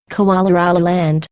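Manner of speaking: "Koala Rala Land" with an R starting the middle word; respelled pronunciation. Shown as a demonstration. Siri trying a respelled name, "Koala Rala Land" with R. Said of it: "spell it a few different ways".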